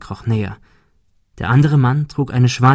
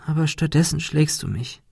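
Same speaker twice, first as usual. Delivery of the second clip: hurt creature; 5 semitones higher, 5 dB quieter than usual. Acted. Monika reproaching softly.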